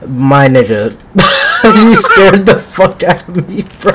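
gasp, then laugh, slow and high; scream into giggles. Real, not acted. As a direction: jump with fright, then crack up. Teammate appears suddenly, startles.

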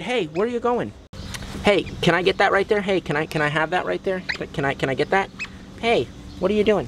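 high, pleading coax to the parents; high pet-talk pleading; coaxing call to otters. Real, not acted. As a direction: sweet-talk them into handing it over. Vlogger coaxing otters for the baby.

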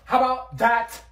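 loud high retort; sassy yell. Acted. Girl ending the argument with a loud sassy retort. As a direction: fling the catchphrase.

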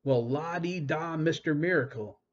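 mock him with a sneer; sarcastic mockery. A narrator's reading.

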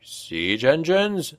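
a slow, stunned echo of siege engines; shocked. Acted. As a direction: repeat it like you can't believe it. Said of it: "Shader sounded shocked".

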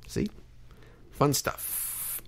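breathy whisper, no voice at all; whispered aside. Real, not acted. Host whispering an aside to listeners about his show. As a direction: drop to a secret whisper.

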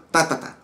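"ta, ta, ta" bunched, then an empty space; triplet with a gap. Shown as a demonstration. Teacher pointing out the wrong gap, bunched triplet count. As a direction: say three TAs close together and pause after them. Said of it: "Mira que queda un espacio".

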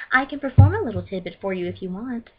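in-character villain singer, offering a tune; Arya Blaze. Acted. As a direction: play the performer showing off a little. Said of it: "I'm not in character anymore".

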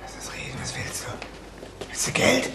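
verängstigt geflüstert; leise, gehetzt, um Zeit ringend; whispered fury. Acted. Bedroht, flüstert panisch. (panisches Flüstern)

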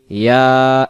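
ইয়া with a measured long "aa"; one-alif length. Shown as a demonstration. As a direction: hold the vowel of ইয়া for one beat. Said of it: "এক আলিফ".

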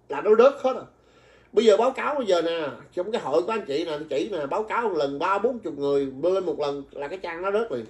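rally the crowd again; urging the livestream group with excitement; excited urging. Real, not acted. Urging viewers to report.

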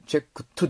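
チェックトゥ ending in a full 'tu' syllable; added vowel ending. Shown as a demonstration. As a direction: say checked as チェックトゥ with a vowel after T. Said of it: "チェックトゥでもない".

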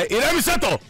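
high urgent call; high excited yell. Real, not acted. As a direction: shout it up high. Yelling at teammate in fight.

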